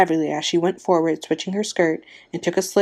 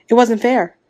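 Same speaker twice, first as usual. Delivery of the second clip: higher, louder cry of protest; shouted protest; 5 semitones higher, 6 dB louder than usual. A narrator's reading. Wife objecting to the draw before the crowd, shouted protest. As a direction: raise your voice in indignation. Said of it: "Tessie Hutchinson shouted to Mister Summers".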